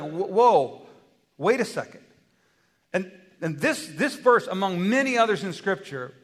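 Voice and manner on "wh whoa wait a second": startled whoa. Acted. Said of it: "Moses is like".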